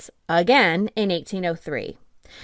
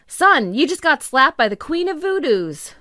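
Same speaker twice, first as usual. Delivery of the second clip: quoting the clerk; 6 semitones higher, 5 dB louder than usual. Retold or imitated. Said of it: "should I say it in a nineteen thirties accent?".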